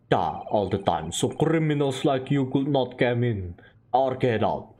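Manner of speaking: put-on Russian-accented sailor, low. Sailor telling the visitors he always guards the door, Russian accent.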